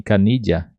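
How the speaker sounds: "canilha" with -lha said as dja: ca-NI-dja; canilha with paulistano di. Shown as a demonstration. Teacher modelling canilha with the São Paulo di sound. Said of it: "poderíamos falar assim".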